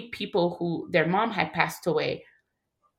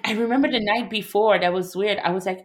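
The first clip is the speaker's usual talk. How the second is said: usual speaking voice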